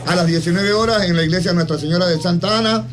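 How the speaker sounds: solemn radio invitation, evenly paced; formal announcement reading. Acted. Radio host reads a friend's memorial mass invitation to listeners, formal announcement.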